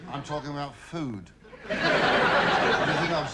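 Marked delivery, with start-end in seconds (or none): 1.7-3.3 slow words broken by giggles; laughing. Acted. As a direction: laugh through the cheeky question. Laughs through innuendo.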